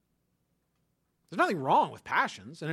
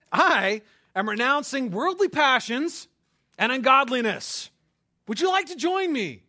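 mock pious invitation; 5 semitones higher, 6 dB louder than usual. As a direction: ham up a solemn churchy offer.

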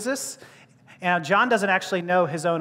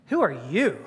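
YOU swooping and stretched, with disdain; stress on YOU; 5 semitones lower than usual. Shown as a demonstration. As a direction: challenge them by leaning on YOU. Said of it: "there is a negativity there".

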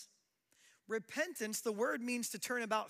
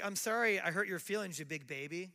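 mock apology; 4 dB louder than usual. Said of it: "Not an apology".

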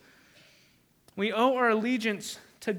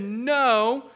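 louder, flat-out no; firm defiant refusal; 5 dB louder, slower than usual. Retold or imitated. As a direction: stand your ground. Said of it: "Hebrew midwives feared God and said".

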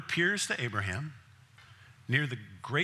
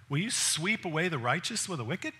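quoted as scripture, a measured plea; Abraham pleading; 4 semitones higher than usual. Retold or imitated. Abraham questions God, a measured scriptural plea. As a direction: read Abraham's plea like the text.

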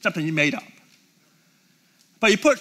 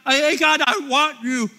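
casual mock prayer; 4 semitones higher than usual. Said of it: "he's not saying".

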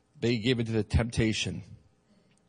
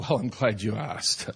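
laughing self-mockery; 3 semitones lower than usual. Mocking his own complaining self.

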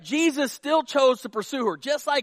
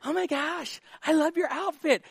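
higher-pitched mock compliment; gushing woman; 6 semitones higher, 3 dB quieter than usual. Woman to woman in the foyer, mock gushing. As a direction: gush like a woman greeting a friend. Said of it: "you can go up to any woman".

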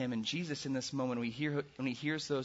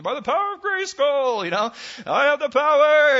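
booming, much higher heroic cartoon cry; big mock superhero proclamation; He-Man hero shout; 13 semitones higher, 15 dB louder than usual. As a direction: roar it like a cartoon hero raising his sword. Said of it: "he'd say".

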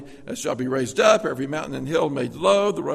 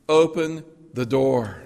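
loudspeaker announcement; 6 dB louder, slower than usual. Pretend. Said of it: "You hear the loudspeaker say".

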